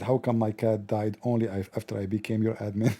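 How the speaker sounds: low, quiet, grave confiding voice; a hint of a gloomy naive man; solemn admin.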